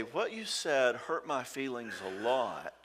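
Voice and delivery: slow, gentle "What you said hurt my feelings a lot"; softly owning it. Shown as a demonstration. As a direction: say it softly and take ownership. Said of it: "softly with him".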